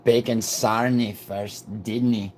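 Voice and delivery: put-on practising a Scottish accent; tentative attempt at Scottish. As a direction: have a slow go at a Scottish accent. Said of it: "trying to get my Scottish accent right".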